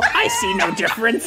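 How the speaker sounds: laughing squeal. Acted. Joking about couples.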